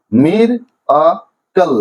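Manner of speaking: three detached beats, মির, আ, কল; syllable by syllable. Shown as a demonstration. Teacher repeating the division, মির আ কল one syllable at a time. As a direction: pause fully between the pieces of মির আ কল. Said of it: "তিনটা সিলেবেলে ভাঙা হয়েছে".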